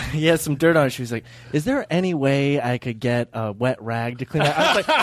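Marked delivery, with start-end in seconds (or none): 1.5-4.6 slow, meek, laughing request; Brian Regan voice. Retold or imitated. A friend retells the comic's plea to a worker, meek and laughing. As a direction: retell his timid plea while laughing. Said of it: "do the Brian Regan bit".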